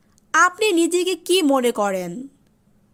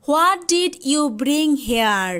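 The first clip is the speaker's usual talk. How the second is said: slow teaching read; much slower than usual. Shown as a demonstration.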